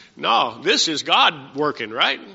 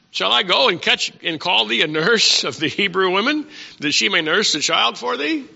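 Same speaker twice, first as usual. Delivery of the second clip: Miriam speaking; 4 semitones higher than usual. Acted. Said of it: "so she runs over and says".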